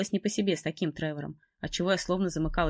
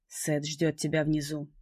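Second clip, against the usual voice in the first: slow stern man; slower than usual. Acted. Evan orders her.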